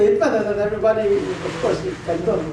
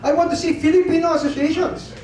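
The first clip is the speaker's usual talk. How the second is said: higher, emphatic retold speech; raised, insistent quoted voice; imitated president; 6 semitones higher than usual. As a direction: lightly mimic a president laying down the law. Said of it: "sabi ni Presidente".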